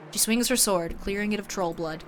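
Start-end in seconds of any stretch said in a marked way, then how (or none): none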